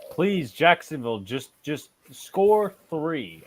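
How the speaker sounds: slow, drawn-out plea; pleading. Real, not acted. The speaker begging Jacksonville to score, drawn out. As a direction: beg the team slowly.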